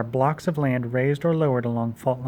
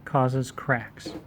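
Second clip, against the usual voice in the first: very slow, each word spaced; slow dictation; much slower than usual. Shown as a demonstration. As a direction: dictate it slowly for notes. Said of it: "let's say that".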